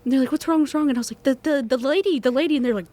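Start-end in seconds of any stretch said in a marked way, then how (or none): 0.3-0.9 high, urgent repeated question; alarmed family. Retold or imitated. 1.2-2.5 higher, stammering words out; frightened child. Retold or imitated.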